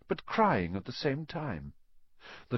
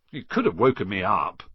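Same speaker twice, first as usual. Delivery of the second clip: mild cross complaint; 3 semitones lower, 4 dB louder than usual. Acted. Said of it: "said Ron crossly".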